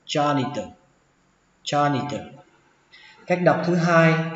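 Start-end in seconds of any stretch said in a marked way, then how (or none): 0.1-2.3 "janitor" with buzzed J and unaspirated "tơ" ending; hard T in janitor. Shown as a demonstration. Teacher models first reading for learners, "janitor" ending in "tơ". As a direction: end "janitor" on a crisp "tơ". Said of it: "âm chờ này là âm chờ rung".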